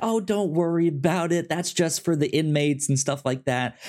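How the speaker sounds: high, casual brush-off; reassuring guard. Retold or imitated. Guard reassures Doctor Zhang about the announcement, lightly voiced. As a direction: wave her worry away. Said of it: "he's like".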